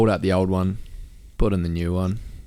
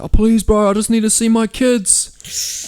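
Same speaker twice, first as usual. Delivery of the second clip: much higher, slow pleading whine; pleading stranger; 13 semitones higher, 6 dB louder, slower than usual. Retold or imitated. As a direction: stretch it out like a desperate beggar.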